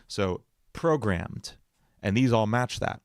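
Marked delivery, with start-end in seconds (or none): 0.1-1.5 "programmed" said slowly, stress on "pro"; stress pattern shown. Shown as a demonstration. Explaining meter to chat, slow stressed word. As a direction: draw out "programmed" with a stressed first syllable. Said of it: "how the syllables are stressed".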